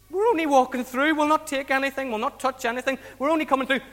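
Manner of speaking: mildly hammed-up reassurance; acted pleading. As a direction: plead lightly for safe passage. Travellers plead with the king.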